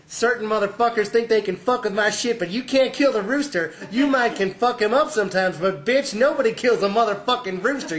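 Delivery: high, loud cocky brother impression; Paul's brash voice. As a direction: boast it loud and high, punching the curses. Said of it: "he says only".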